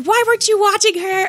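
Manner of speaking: put-on, very high, upset, shrill drunken yelling. Retelling how a drunk friend yelled at her boyfriend about her dog, mock yelling. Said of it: "she's yelling at her boyfriend".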